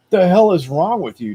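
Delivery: angry outburst. Retold or imitated.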